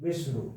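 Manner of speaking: विष्णु with weight on विष्, softly falling away; stress on first syllable. Shown as a demonstration. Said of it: "बल दिया जा रहा है मूर्धन्य सा के साथ".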